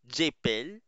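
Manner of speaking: "j'épelle" said zhay-pell; French pronunciation. Shown as a demonstration. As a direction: model French "j'épelle" as two clear syllables. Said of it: "that will be".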